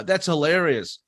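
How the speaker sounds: flat, unamused "that's hilarious"; mocking a texter who types instead of laughing; deadpan fake praise. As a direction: say "That's hilarious" as if it isn't funny at all. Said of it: "you go".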